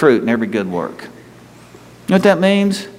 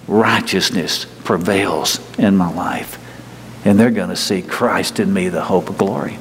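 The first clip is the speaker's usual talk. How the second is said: gracious new nature; 6 semitones lower than usual. Pretend. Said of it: "The new nature would say".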